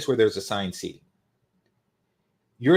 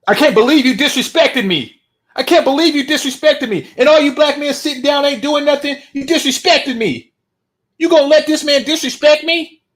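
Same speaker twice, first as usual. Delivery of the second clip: much higher, louder indignant yelling; outraged black woman; 12 semitones higher, 8 dB louder than usual. Retold or imitated. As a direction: scold the whole room. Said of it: "Black woman".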